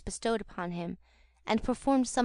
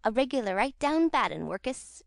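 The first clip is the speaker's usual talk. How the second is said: coolly; 3 semitones higher than usual. Acted. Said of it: "replied Noah coolly".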